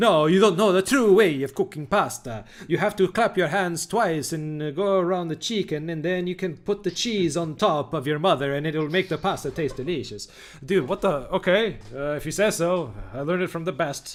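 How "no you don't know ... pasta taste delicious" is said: put-on Italian accent throughout. Mocking how Italians talk about cooking pasta: put-on Italian accent. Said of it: "you're offending a lot of Italians now with your accent".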